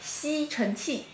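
slow, hushed exaggerated mouthing; stage whisper. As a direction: barely voice it, lips wide. Mouthing word for lip reader.

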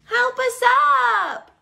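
high, loud, slow plea; crying for help. Acted. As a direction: call out to be helped up. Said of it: "cried A".

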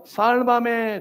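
acted high call for rescue; crying out. Preacher repeats sinking Peter's plea, crying out. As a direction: cry it high, without extra volume. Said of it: "al final él grita".

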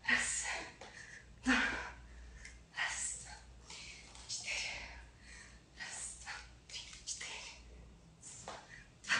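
quiet count fading into a whisper; counting workout reps. Real, not acted. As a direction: count reps under your breath, trailing off. Counting reps mid-exercise.

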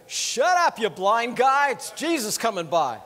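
hammed-up crowd hushing the beggar; mock crowd scolding. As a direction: crowd telling the blind beggar to shut up, loud mock scolding. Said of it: "these guys are going".

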